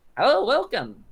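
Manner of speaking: very high, loud, squeaky little voice. Describing what visitors will hear inside, imitating the one who greets them: squeaky voice. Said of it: "you'll hear that same squeaky voice".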